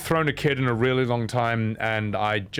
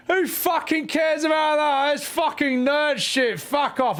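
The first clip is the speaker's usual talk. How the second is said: mock angry fan; 14 semitones higher than usual. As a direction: yell it like an offended jock. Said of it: "They'd just be like".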